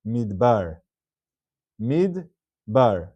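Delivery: "midbar" read as two syllables, mid-bar; shva nach reading. Shown as a demonstration. Teacher showing students how the word is read, clear two-syllable demonstration. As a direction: say "midbar" with a silent shva after the d. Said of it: "it's read as".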